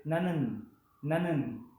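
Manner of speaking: nanun slow, two clear syllables na-nun; correct nanun. Shown as a demonstration. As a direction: model the right form nanun. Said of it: "en vez de ser naun". (nanun, la forma correcta)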